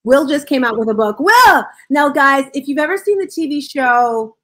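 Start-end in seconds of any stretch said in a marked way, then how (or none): 1.2-1.6 calling out loud. Real, not acted. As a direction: shout the name to get his attention. Host calling out to guest.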